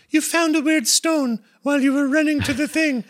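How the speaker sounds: very high, airy narrator voice; imitating a gentle storybook narrator. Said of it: "the narration pops in and goes".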